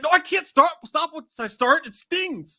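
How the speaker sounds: high, pained whine; whiny character voice. Retold or imitated. Streamer quoting the stinging scene, high and whiny. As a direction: whimper it like it hurts. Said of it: "He's like".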